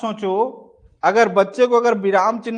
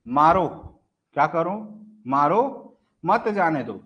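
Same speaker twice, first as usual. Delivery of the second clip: मारो set apart with a rising end; pause after मारो. Shown as a demonstration. Teacher showing where the comma goes, pause after मारो. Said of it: "एक जगह मैं विराम चिन्ह कहां पर देता हूं".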